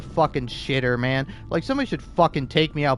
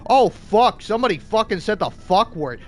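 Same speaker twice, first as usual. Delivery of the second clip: mock shock; 5 semitones higher, 3 dB louder than usual. Mocking outrage.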